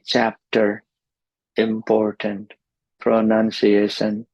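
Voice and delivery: "chapter, important, pronunciation" with equal weight on each syllable; even stress. Shown as a demonstration. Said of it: "in the same volume with the same stress".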